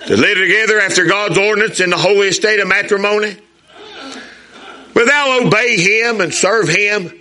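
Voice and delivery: put-on young groom's papa asking the vows; wedding officiant. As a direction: read the vows like a minister at the altar. Reciting the bride's vows.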